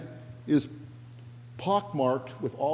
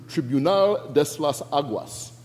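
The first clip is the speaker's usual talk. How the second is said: Tribunal de las Aguas said the Spanish way, with a proud Spanish accent; 4 dB louder than usual. Shown as a demonstration. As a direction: slip into a full Spanish accent for the name. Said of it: "I know that's a nice accent".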